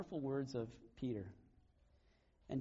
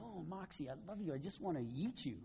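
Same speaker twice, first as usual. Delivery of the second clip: put-on high, soft baby talk to a pet; imitating daughters gushing over their fluffy dog; cooing at the dog; 3 semitones higher, 3 dB quieter than usual. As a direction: coo it like a girl hugging her puppy. Girls cuddling the family dog.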